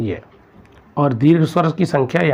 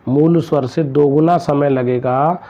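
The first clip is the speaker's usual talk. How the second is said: slow dictation; slower than usual. Shown as a demonstration. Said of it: "पूछा जाएगा".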